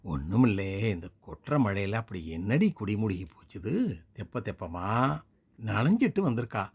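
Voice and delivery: mother fakes annoyed complaint to the neighbour; feigned grumbling. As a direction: pretend to fuss over the rain. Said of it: "பொய்யாளாக அங்கலாய்த்து கொண்டாள்".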